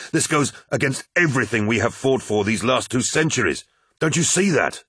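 rising to a high-pitched appeal; protest, pitch climbing to the final question; impassioned protest. Acted. Loken argues against the false gods, impassioned.

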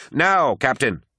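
high, loud urgent yell. A narrator's reading. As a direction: snap the captain out of his daze. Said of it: "yelled the apothecary".

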